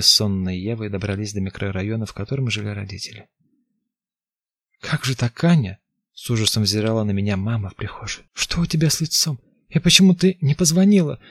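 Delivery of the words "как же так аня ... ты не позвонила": shocked mother. Acted.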